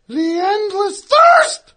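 loud, slow announcer title; dramatic title read. Shown as a demonstration. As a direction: boom the episode title. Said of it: "you didn't read the title".

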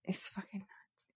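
whispered in disbelief; a stunned aside, whispered. Real, not acted. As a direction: hiss it under your breath. Reacting to the slap.

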